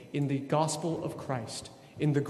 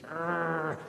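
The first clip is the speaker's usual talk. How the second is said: frustrated growl; 3 dB quieter than usual. Retold or imitated. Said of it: "I hate it when people don't follow the rules".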